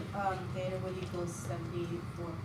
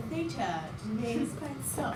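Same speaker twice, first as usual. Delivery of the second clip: put-on dignified British accent, higher and louder; 6 semitones higher, 5 dB louder than usual. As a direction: say it eloquently in a posh British accent. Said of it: "Say it with a British accent".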